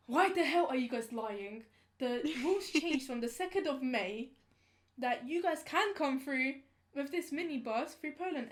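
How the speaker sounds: lightly acted indignant outburst; exasperated policeman. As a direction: imitate an officer telling liars off. Retold policeman scolds the group.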